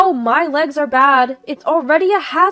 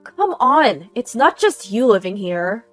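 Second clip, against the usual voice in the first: loud, impatient reproach; aggressive complaint; 6 dB louder than usual. Acted. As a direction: cut off the apology with a loud rebuke. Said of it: "the aggressive complaints are nonstop".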